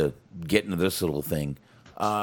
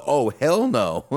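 slow, high, louder "Oh, hell no" stretched out; mock fearful enthusiasm; 7 semitones higher, 5 dB louder, slower than usual. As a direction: drag it out with comic alarm. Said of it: "the fear almost".

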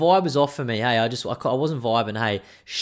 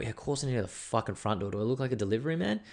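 sarcastic; 4 dB quieter, faster than usual. Retold or imitated. Sarcastic reply to the driver.

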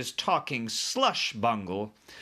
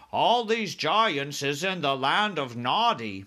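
lightly voiced giant, slower, higher; BFG explaining; 4 semitones higher, 4 dB louder, slower than usual. A narrator's reading. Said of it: "the B F G said".

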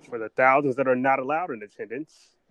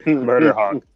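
loud call-out; 11 dB louder, slower than usual. Real, not acted. Shouting the name.

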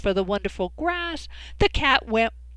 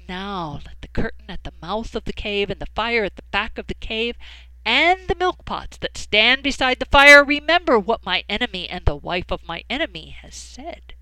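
cat making a vow; 2 semitones higher, 5 dB louder than usual. Acted. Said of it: "the cat arched his back and said".

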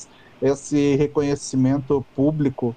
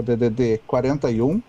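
over enunciating. Shown as a demonstration. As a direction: spell out each digit deliberately. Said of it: "vou falar devagar".

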